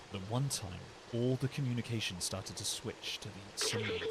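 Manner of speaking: understated in-game narrator; narration voice. Acted. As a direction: read it as a measured character narration. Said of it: "I'm using my little narration voice".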